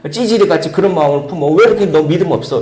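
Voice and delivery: preacher acting a harsh scolding; mock rebuke. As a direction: rebuke him as a coward. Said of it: "이렇게 질책하는 언어".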